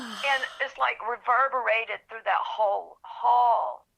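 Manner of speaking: speaking through real tears, a little slow; crying. Real, not acted. Author reliving Pat Conroy's praise, through real tears. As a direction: let the tears break into the words. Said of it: "ugly, ugly tears".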